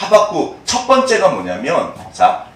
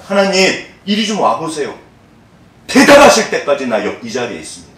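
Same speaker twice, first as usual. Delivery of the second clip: 화난 하박국 흉내. Retold or imitated. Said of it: "하박국이 열받아가지고".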